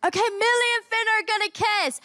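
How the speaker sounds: high-pitched retold announcement; mock shout. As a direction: call it out as if to a crowd. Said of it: "and he just shouts it".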